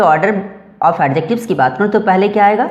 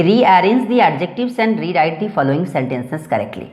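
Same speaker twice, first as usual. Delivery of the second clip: slow, careful classroom reading of English; slow dictation reading; much slower than usual. Shown as a demonstration. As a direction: read the instruction out word by word, very slowly. Teacher reads exercise instruction slowly. (धीमी, साफ़ पढ़ाई वाली आवाज़)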